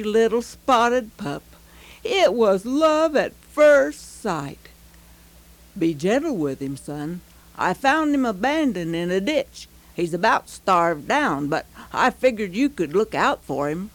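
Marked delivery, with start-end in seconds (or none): 5.8-13.9 low, kind fatherly tone; gentle father voice. Acted. Dad speaks to his son.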